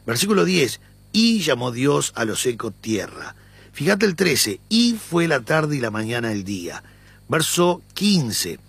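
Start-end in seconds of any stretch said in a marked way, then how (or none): 1.1-3.4 "Y" stressed at the start. Shown as a demonstration. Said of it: "Yo voy a darle énfasis en la "y". 4.7-6.8 "Y" stressed at the start. Shown as a demonstration. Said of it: "Yo voy a darle énfasis en la "y".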